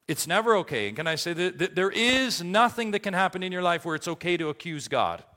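high, loud pulpit delivery; full-force preaching. Acted. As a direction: drive each point out to the congregation.

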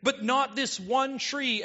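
lightly voiced God, eager and insistent; emphatic God's command. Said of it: "It's emphasized".

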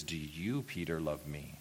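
soft, low and tender; gentle question. Acted. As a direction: ask it quietly, as Jesus to a fallen friend. Voices Jesus gently asking Peter.

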